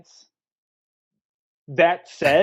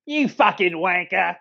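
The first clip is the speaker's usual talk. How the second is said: mock Cockney English accent. Co-host obliges with the accent, mock Cockney insult. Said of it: "Do it with the English accent".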